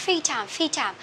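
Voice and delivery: FREE TIME with the r dropped, like "fee tam"; students' wrong FREE. Retold or imitated. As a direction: imitate learners saying FREE as "fee". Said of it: "các bạn có đọc là". (bắt chước đọc sai FREE, mất âm r)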